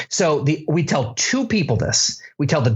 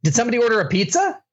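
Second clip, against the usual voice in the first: mock pizza delivery guy; 6 semitones higher, much faster than usual. Pranking Vince as pizza guys.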